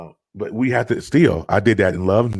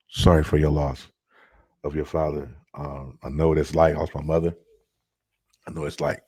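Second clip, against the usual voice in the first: sincere condolence; 4 semitones lower, 3 dB quieter than usual. Real, not acted. Condolences to grieving viewer.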